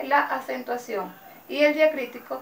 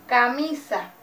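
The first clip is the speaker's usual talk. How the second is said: "camisa" said with the weight on MI; stress on MI in "camisa"; 3 dB louder, slower than usual. Shown as a demonstration. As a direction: lean on the middle syllable MI of "camisa". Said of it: "la mayor fuerza de voz recae en la sílaba mi". ("camisa" con la fuerza de voz en MI)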